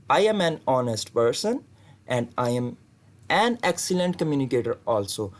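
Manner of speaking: slow, careful model answer. Shown as a demonstration. Teacher reads students a model interview answer slowly. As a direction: read each word out slowly for learners. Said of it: "model answer".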